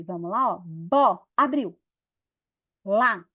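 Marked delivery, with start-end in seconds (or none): 0.6-1.2 "Bó" as one isolated beat; single separated syllable. Shown as a demonstration. Teacher counting mouth openings in bola, one separated syllable. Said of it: "levantar um dedo quando a boca abre". 2.8-3.2 "Lá" as one isolated beat; single separated syllable. Shown as a demonstration. Teacher counting mouth openings in bola, one separated syllable. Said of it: "Abriu de novo".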